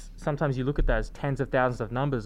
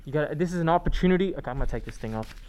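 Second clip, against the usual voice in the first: muffled behind a face mask; 5 dB quieter, faster than usual. Real, not acted. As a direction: talk through a covering mask. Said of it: "'cause I can't talk properly".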